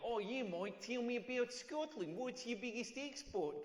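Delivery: lightly put-on Australian accent, a bit slow; a mild Aussie flatmate impression. Flatmate asking about Scotland in a light Australian accent. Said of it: "exactly what Australians sound like".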